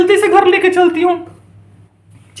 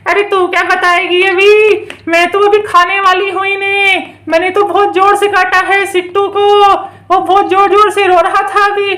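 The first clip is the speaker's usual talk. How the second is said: menacing witch. Pretend. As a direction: threaten in a stretched, singsong way.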